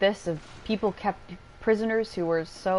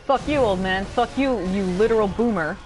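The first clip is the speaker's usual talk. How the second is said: angry yell; 2 semitones higher, 6 dB louder than usual. Real, not acted. Yelling at a game enemy.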